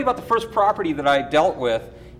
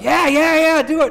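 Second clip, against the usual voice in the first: high, urgent retold urging; imitated impatient, high-pitched go-ahead; eager insistence; 12 semitones higher, 5 dB louder than usual. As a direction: act out a fan egging someone on. Retold fan urges him on.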